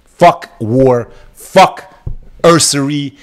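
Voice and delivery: high, loud outburst; one loud, high defiant word; defiant shout. Real, not acted. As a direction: spit it out at the top of the rant. Defiant rant peak.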